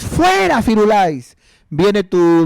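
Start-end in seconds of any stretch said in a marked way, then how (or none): 0.0-1.4 shooing the dog. Retold or imitated. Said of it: "Viene Firulais".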